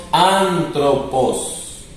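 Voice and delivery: "antropos" drawn out slowly, starting on a plain A; espíritu suave. Shown as a demonstration. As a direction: say "antropos" slowly, no breath before the A. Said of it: "no le cambia el sonido a la alfa". ("antropos" lento, con A inicial sin aspiración)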